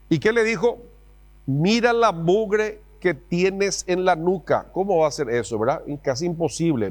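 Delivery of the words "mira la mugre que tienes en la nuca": higher, slow mock reproach; a hint of a stern mother; scolding mom. Mom's scolding, acted.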